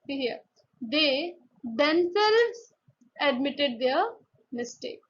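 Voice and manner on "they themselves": "themselves" stretched out very slowly; emphasis on THEMSELVES. Shown as a demonstration. Teacher illustrating emphasis, long slow stress on "themselves". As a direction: draw out "themselves" to underline it.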